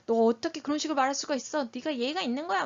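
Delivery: acted indignant telling-off; quarrelling parent. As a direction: rattle off the scolding as if starting a fight. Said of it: "막 이러면 싸우게 되죠".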